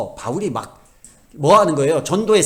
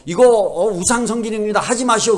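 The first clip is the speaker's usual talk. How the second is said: mildly raised, higher-pitched protest; mock protest; 5 semitones higher, 3 dB louder than usual. Objecting at a temple to idol worship, mock protest. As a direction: act out an objection to the idol rites.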